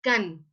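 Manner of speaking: CAN sounded out strong and drawn out; stressed syllable. Shown as a demonstration. Teacher showing class the stressed syllable, stressed CAN. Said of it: "donde suena más fuerte".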